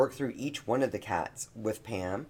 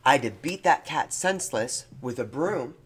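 mock quote; 2 semitones higher than usual. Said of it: "this person had said".

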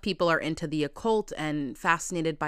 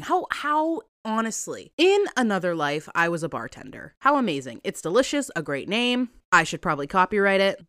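a little tipsy and giddy; loose, slightly tipsy rambling; 3 dB louder than usual. Real, not acted. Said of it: "I'm gonna be a little tipsy".

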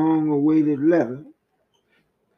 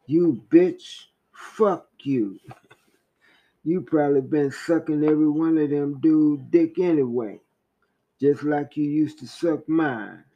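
raised, contemptuous abusive rant; voice of anger; 2 semitones higher than usual. Acted. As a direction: pour out bitter insults to the wife. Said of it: "That's what anger said".

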